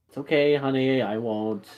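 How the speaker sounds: softening, settling down to comfort; reassuring mother. Acted. Mother calming her worried child, gentle reassurance.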